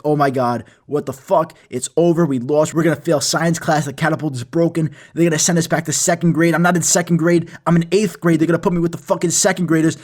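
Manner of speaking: retold panic, building in volume; freaking out. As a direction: spiral into mock panic, one worry tumbling after another. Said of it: "I start freaking out".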